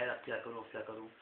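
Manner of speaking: soft, fading worried muttering. Acted. Potne trapped and fretting, quietly worried. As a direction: mutter to yourself, at a loss.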